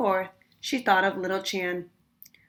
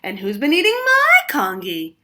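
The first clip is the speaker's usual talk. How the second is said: louder cry of protest, stress on my; cried out; 6 semitones higher, 9 dB louder than usual. A narrator's reading. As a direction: call out in alarm. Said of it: "cried Missus Chan".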